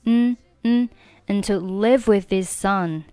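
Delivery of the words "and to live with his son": "and" shrunk to a bare n before "to live"; reduced and. Shown as a demonstration. Teacher showing weak forms, "and" reduced to n. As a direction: say "and" as just "n". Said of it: "中间and可以读成n的发音".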